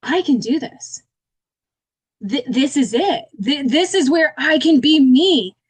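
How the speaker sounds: slow and emotional, on the edge of crying; choked up, slow and earnest; close to tears. Real, not acted. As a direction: hold back tears as it sinks in. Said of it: "I'm gonna start crying".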